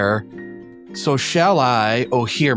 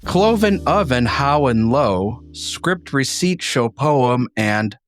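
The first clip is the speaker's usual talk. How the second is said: reciting a poem aloud; poem reading. Acted. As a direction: read the verse with a lilt.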